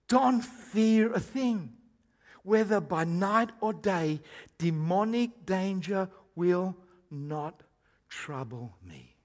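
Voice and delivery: slow, measured Bible reading; scripture reading. Real, not acted. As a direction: read the verse out slowly, letting each phrase land. Reads the verse aloud.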